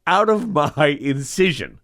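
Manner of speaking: high, slow, barked rebuke from the surgeon; angry surgeon. Retold or imitated. Surgeon knocking resident off his chair, angry bark. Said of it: "and says".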